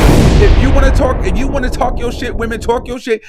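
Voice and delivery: rallying shout. Real, not acted. Rallying women, calling out.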